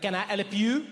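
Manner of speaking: irritated "Can I help you?" with a rising end; a put-out, grudging offer of help; annoyed clerk. Retold or imitated. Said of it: "an annoyed voice behind me".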